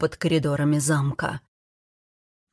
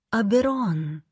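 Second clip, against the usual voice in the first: higher, gentle female voice; soft, kind woman; 4 semitones higher, slower than usual. A narrator's reading. Goddess greeting the man at the vault, soft and kind. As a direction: say the name softly and kindly, pitched up. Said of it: "мягкий, добрый голос".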